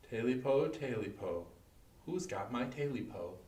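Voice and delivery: soft, menacing hush; fear-inducing question. A narrator's reading. Creature scratches at the door, asking softly and menacingly. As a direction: let it sink into a chilling near-murmur. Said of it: "a fear-inducing question".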